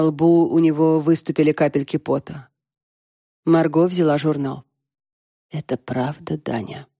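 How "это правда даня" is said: hoarse and much softer, dropping low at the end; a wife's hoarse, hushed question to her husband. A narrator's reading. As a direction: ask it hoarsely, barely holding together. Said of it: "хрипло спросила она".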